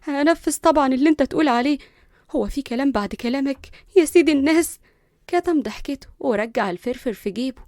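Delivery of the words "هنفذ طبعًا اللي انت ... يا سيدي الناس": mildly scared, eager agreement; understated nervous compliance; fearfully. Acted. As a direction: hurry to appease, a touch afraid. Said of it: "قطعته بخوف".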